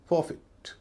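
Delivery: "forfeit" ending in fit; short i. Shown as a demonstration. Teacher modelling the exception, short i ending. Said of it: "उच्चारण छोटी ई हो रहा है".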